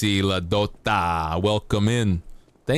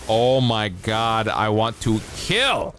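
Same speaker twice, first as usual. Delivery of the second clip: slow, mock-excited dog voicing the hunt; a lightly voiced dog craving the chase; dog's eager voice; slower than usual. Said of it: "the dog is like".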